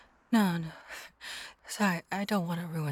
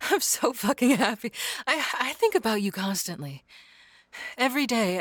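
giddy gushing; 4 semitones higher, 3 dB louder than usual. Acted. Gushing yandere confession.

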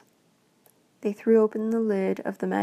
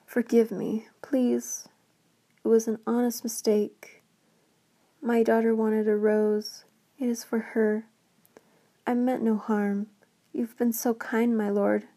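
frightened pleading. Acted. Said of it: "barely able to control his voice".

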